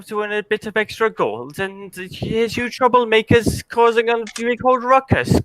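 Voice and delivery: put-on fumbling for a Welsh accent; attempted Welsh accent. GM as John tries a Welsh accent on the party, hesitant Welsh lilt. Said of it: "I'm trying to find my Welsh accent".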